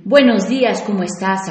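bright, upbeat hello; cheerful good morning; friendly greeting. Shown as a demonstration. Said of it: "con un tono y intención diferente".

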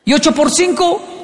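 high, slow drawn-out trap question; adult baiting the frightened kid; slow menacing question. Retold or imitated. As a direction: dangle the question slowly. Adult asking tricky follow-up.

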